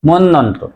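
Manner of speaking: মন্বন্তর said monnontor, doubled n; no b in মন্বন্তর, lengthen the n; correct pronunciation. Shown as a demonstration. Teacher gives correct form, n doubled. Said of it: "সঠিক উচ্চারণ হবে".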